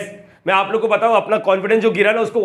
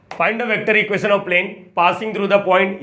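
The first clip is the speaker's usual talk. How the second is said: slow, drawn-out dictating pace; slow dictation; much slower than usual. Shown as a demonstration. Teacher dictating slowly to students as he writes. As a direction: read it out word by word as you write.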